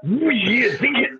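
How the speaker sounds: hyped-up wrestling promo voice; Macho Man voice. Acted. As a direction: cut a promo like a pro wrestler, with a slow "Macho Man" line. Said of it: "you sound like Macho Man".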